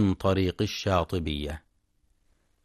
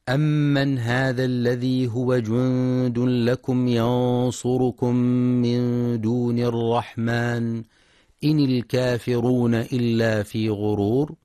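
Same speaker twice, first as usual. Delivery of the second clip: Quran recitation; 3 dB louder than usual. Acted. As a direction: recite it as in tajweed class.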